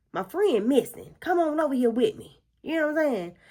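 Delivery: put-on a child begging mom to check on her missing friend, urgent and loud; pretend urgent plea. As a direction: beg her mother to come right now. Pleading with mom to help.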